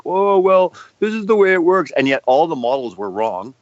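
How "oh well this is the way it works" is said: high, loud, know-it-all sneer; mocking mainstream voice. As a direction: parody the smug experts, pitched up. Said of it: "they're like".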